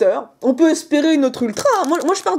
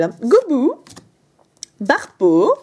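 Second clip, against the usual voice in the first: ordinary talk, nothing marked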